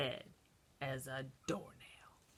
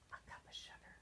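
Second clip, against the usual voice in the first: whispered request; 23 dB quieter, faster than usual. Acted. Wolf asking the children for sugar, whispered. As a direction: ask in a hush. Wolf asks listener sweetly.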